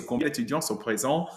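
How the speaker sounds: combien d'étudiants sont présents with the voice rising on présents; rising intonation. Shown as a demonstration. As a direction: lift the pitch at the end of présents to make a question. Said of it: "I'm raising my voice at the end".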